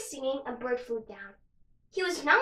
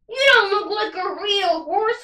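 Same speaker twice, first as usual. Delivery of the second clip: snooty horse voice; 6 semitones higher, 8 dB louder than usual. Acted. Horses mocking the unicorn.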